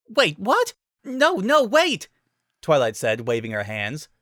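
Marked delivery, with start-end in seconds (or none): 0.1-2.1 loud high alarmed plea; urgent call. A narrator's reading. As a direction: call out urgently to stop her. Twilight urgently stops her.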